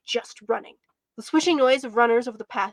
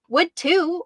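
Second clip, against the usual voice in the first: higher-pitched, defiant comeback; insistent, raised-pitch retort; arguing; 6 semitones higher, 4 dB louder than usual. A narrator's reading. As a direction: argue back like a squabbling sibling. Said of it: "I argued".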